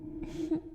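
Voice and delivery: quick quiet laugh; a short, shy laugh; soft chuckle. Acted. Chuckle after joke about age.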